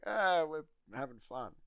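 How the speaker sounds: loud, high, drawn-out call. Retold or imitated. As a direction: call it out cheerily across a distance. Retold calling out to mother.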